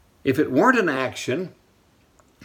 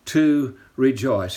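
slow dictation; slower than usual. Shown as a demonstration. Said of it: "Write that down".

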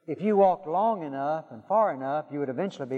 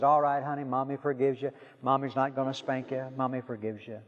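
lightly acted soothing mommy, a little lower; mild motherly comfort, settling softer; reassuring mother; 3 semitones lower, 3 dB quieter than usual. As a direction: gently let the child off, softening at the end. Mother soothes begging child in story.

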